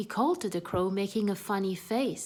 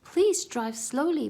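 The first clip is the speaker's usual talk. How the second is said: higher, louder pleading; louder frightened plea; begging; 6 semitones higher, 5 dB louder than usual. Acted. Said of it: "begged Annie".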